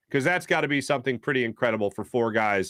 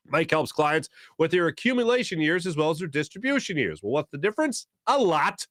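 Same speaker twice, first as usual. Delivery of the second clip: brisk, upbeat host-read sponsor spot; radio host reading a financial ad; 3 semitones higher than usual. Real, not acted. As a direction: sell the service with punchy emphasis.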